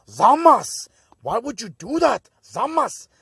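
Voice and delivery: hammed-up betrayed wail, high and loud; high, loud, melodramatic pleading; mock anguished cry. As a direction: cry out in over-the-top, high-pitched dismay. Acting out betrayed Gowasu's anguished outcry.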